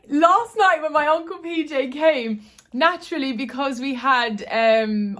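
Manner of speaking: getting emotional and laughing it off. Real, not acted. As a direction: voice lifted high with real emotion, a little laugh. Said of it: "if you can tell from my tone of voice".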